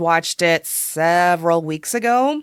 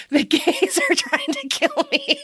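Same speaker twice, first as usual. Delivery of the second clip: much higher, dramatic, laughing line; Tanya quote; 11 semitones higher than usual. Retold or imitated. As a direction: ham up a melodramatic socialite. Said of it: "And of course, Tanya".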